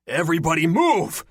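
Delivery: urgent high shout; yelling. A narrator's reading. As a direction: shout a warning at everyone. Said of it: "turned on his heels and yelled".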